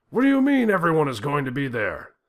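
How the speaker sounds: loud, high furious yelling. A narrator's reading. President yelling at Putin over phone, furious. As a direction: yell in disbelief down the phone.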